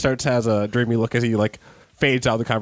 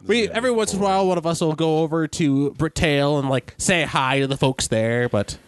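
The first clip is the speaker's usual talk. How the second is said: put-on elderly woman voice; 5 semitones higher than usual. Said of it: "my elderly voice isn't very good".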